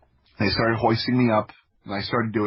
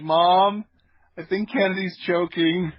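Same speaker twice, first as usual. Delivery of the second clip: sister's alarm; 9 semitones higher, slower than usual. Retold or imitated. Little sister calling to mom about the choking, mock alarmed. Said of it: "my sister kinda looked over at my parents".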